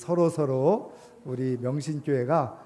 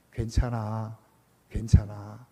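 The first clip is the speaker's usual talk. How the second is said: soothing; 3 semitones lower, 3 dB louder, slower than usual. Retold or imitated. Parent soothing crying child, retold.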